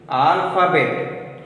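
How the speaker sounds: Alphabet said slowly with a clear F sound, alfabet; Alphabet, the PH voiced as a clean F. Shown as a demonstration. Teacher reading Alphabet to class, slow and clear. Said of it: "He is emphasizing on P H".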